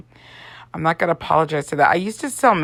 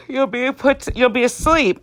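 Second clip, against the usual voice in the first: reassuring doctor; 7 semitones higher than usual. Retold or imitated. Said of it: "And he said".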